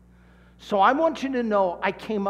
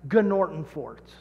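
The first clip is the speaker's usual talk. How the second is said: slow prompt; 3 dB louder than usual. Shown as a demonstration. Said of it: "Turn to the person next to you and say".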